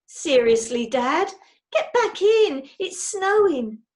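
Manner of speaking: an exasperated daughter, drawn out; teen daughter. A narrator's reading. Daughter begging dad back inside, slow exasperated plea. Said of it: "grinned Judy".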